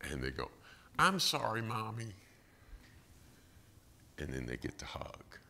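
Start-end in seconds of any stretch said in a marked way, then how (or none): 1.0-2.1 put-on little child. Child apologizes to mom.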